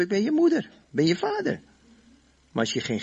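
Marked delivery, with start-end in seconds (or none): 0.0-1.6 mock parent yelling much higher; mock shouting parent. Preacher mocking a parent who shouts for authority, high mock yell. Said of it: "Je kunt honderd keer roepen".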